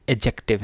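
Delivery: एडजेक्टिव without any d sound, a-jective; silent d. Shown as a demonstration. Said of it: "ये जो डी है इसको आपने pronounce नहीं करना". (एडजेक्टिव डी के बिना बोलें)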